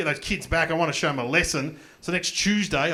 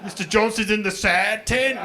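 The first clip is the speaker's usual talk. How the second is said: put-on child voice; 4 semitones higher, 4 dB louder than usual. Child answering about teacher.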